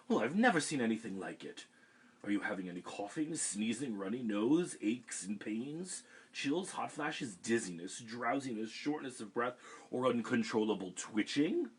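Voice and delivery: fast rattled-off symptom list; a busy doctor rushing through checks; quick clinical rundown of symptoms; brisk doctor. Acted. Doctor voiced in story.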